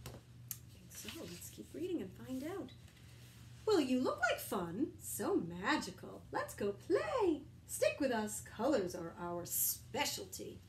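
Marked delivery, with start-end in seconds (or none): 3.7-10.6 cheerful crayons. Acted. Crayons invite unicorn.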